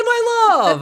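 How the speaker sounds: very high, loud cooing; gushing delight. Real, not acted. Touched that she called him my love, squealing high. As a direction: melt over the sweetness. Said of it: "How sweet is that?".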